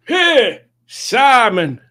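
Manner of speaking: squeaky high cartoon penguin voice; Pingu's voice. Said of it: "This is Pingu's voice".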